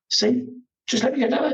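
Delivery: high, sing-song pleading; mock pleading. Telling the pit lane man to let him through, high pleading. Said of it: "I was like".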